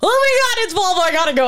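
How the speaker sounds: high excited burst; excited rush. Retold or imitated. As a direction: gush it out in a hurry. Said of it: "And so I'm like".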